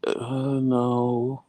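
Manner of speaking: high, drawn-out moaned no; mock sick whine. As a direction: imitate an unwell husband's pitiful answer. Imitates sick husband answering.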